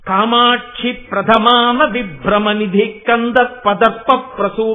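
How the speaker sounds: slow sloka recitation. Acted. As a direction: lay out each word of the verse slowly.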